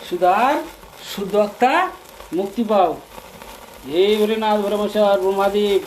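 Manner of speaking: chanted plea to the gods, voice held up; loud invocation. Real, not acted. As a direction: call out the prayer loudly. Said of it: "জোরে জোরে?". (জোরে জোরে মন্ত্রের মতো প্রার্থনা)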